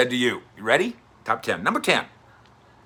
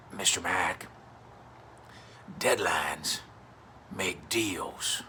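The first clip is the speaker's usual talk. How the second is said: lightly voiced lower Texas drawl; slow folksy owner talk; Jerry Jones impression; 5 semitones lower, 8 dB quieter, much slower than usual. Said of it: "you have asked for my Jerry imitation".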